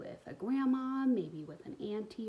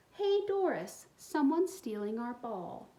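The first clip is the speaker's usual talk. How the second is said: put-on high, loud boy's call; 3 semitones higher, 4 dB louder, slower than usual. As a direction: yell across the park to Doris. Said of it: "a boy's voice rang out".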